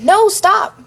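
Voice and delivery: high, loud scream of protest. A narrator's reading. Victim screams at Jeff in pain, screaming. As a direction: scream it out, pitch jumping way up. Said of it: "I screamed".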